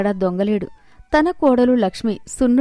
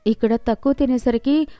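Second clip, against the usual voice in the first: meek wife's apology, slightly raised pitch; contrite pleading; 3 semitones higher than usual. Acted. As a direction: plead gently with a husband who won't talk. Wife pleads with silent husband.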